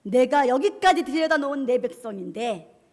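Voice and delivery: loud challenge rising to a shout; thundering divine challenge, acted; indignant God. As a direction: confront the enemy in outrage. Preacher voices God confronting enemies.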